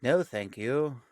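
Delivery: drawn-out, deliberate polite refusal; Tech. Acted. Co-host imagining Tech knowingly refusing a flirt, slow mock politeness. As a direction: turn it down slowly, lightly in character. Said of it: "he's like".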